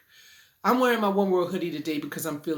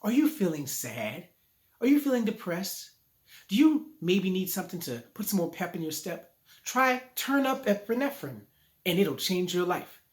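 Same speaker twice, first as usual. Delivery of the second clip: slow ad voice; 2 semitones higher than usual. Retold or imitated. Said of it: "they talk slow when they say".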